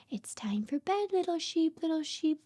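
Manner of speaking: hushed, singsong lullaby lines; bedtime story reading. Acted. Mother reads a bedtime book to her baby, hushed and singsong. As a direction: lull the baby toward sleep.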